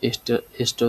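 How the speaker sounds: "এসটা, এসটা" as esh-ta; sh before t. Shown as a demonstration. Teacher showing the letter pair, "এসটা, এসটা" said esh-ta. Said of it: "এসটা উচ্চারণ করা হয়".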